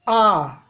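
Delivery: A at mid pitch, easing down slightly. Shown as a demonstration. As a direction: say A on a middle tone. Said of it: "Ton moyen". (« A » au ton moyen)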